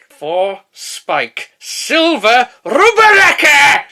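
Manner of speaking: slow, high, loud goblin cry. Acted. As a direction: drag it out like a cackling goblin. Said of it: "sound like one of the bloody goblins".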